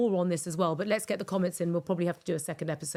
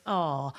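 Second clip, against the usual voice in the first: soft sentimental ah; 5 semitones lower than usual. Shown as a demonstration. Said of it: "it makes you go".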